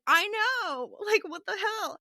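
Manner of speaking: high, giggly disbelief; giggling what the hell; laughing. Retold or imitated. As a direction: laugh through the words. Retelling her own laughing reply.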